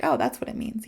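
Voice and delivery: hushed whisper of sudden understanding; whispered aside to yourself; whispered realization. Pretend. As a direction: breathe it out like a private aha. Imagined learner's realization, whispered.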